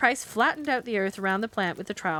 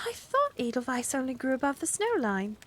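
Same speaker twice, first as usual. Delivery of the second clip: wondering; 5 semitones higher than usual. Acted. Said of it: "Carrie remarked wonderingly".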